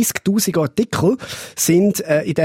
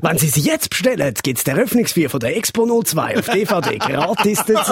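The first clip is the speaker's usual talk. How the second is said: infomercial. Pretend. Mock TV shopping sales pitch.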